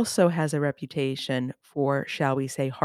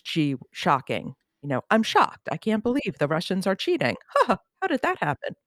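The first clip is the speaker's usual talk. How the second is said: mock amazement, pitch jumping way up; sarcastic shock; 4 semitones higher than usual. Host mocking surprise at Russians cheating, sarcastic. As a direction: feign total shock, dripping with irony.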